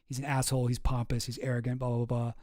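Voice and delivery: low, soft dismissive mutter; muttered gossip. Retold or imitated. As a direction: grumble it under your breath. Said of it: "people have been like".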